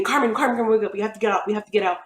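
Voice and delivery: loud, urgent calling of her name; urgent wake-up call. Retold or imitated. Mom rousing her child from a smoky house, urgent and loud. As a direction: shake her awake and get her out now.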